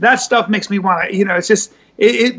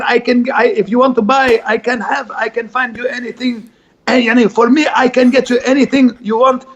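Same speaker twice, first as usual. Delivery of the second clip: put-on Lebanese hustler accent. Actor showing the host his wedding chapel man, in a Lebanese accent. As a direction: pitch it like a Lebanese fixer in Vegas. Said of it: "He talks like this".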